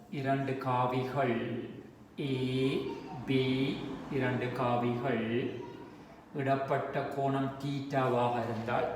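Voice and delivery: slow definition read out while writing; lingering on each term for note-takers; dictation. Real, not acted. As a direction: dictate in spaced, measured phrases.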